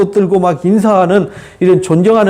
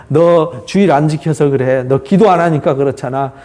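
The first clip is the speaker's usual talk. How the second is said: lower-pitched, matter-of-fact mock blaming; condemning; 4 semitones lower than usual. Friend claiming to comfort but blaming, mildly condemning. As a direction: pass judgment in a lowered pitch. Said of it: "이렇게 정죄하는 거하고 똑같은 거예요".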